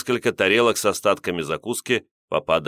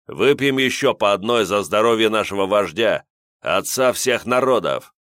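booming toast; 3 semitones higher than usual. Acted. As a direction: boom it out like a toast. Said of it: "как он громогласно объявил".

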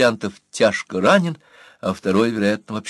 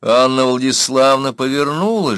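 ordinary delivery, nothing marked

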